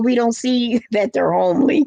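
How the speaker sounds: "homely" said through a chuckle, rising at the end; a little laugh slips in before "homely"; chuckling. Real, not acted. Joking about homely men.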